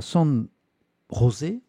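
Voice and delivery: "San José" said with a light Spanish accent. Shown as a demonstration. Streamer reading the article says "San José" in a light Spanish accent. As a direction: roll "San José" the Spanish way, a playful nod. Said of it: "je le fais, euh, avec l'accent espagnol".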